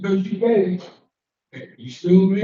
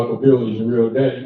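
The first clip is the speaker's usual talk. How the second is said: imitating his father; 9 semitones lower, faster than usual. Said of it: "what my father used to say".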